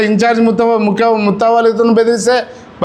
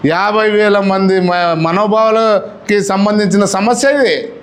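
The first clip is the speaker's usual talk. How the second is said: slow and deliberate; much slower than usual. Real, not acted. A speaker answering a critic at a press meet, slow and weighty. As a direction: spell each word out slowly, very earnest. Stresses the community's feelings slowly.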